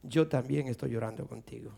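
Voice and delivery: low, hushed and gentle; tender voice of God. Retold or imitated. God answers the weeping father, low and tender. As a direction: softly share the sorrow, pitched well down. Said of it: "escucha la voz de Dios que le dice".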